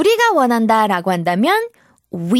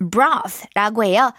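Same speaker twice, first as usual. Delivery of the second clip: very slow, drawn-out broth; slow teaching pace; much slower than usual. Shown as a demonstration. Teacher to kids, slow deliberate broth. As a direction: spell out each sound slowly for children. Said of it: "teacher models new word".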